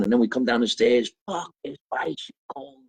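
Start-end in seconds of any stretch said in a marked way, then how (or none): 1.3-2.8 put-on awed kid. Kid finding bicycle at Christmas.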